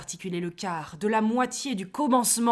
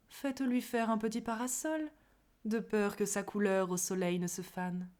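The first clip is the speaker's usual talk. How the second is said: soft, gentle and caring; tender; 6 dB quieter than usual. Acted. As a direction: coo it softly like a kindness. (tendre et doux)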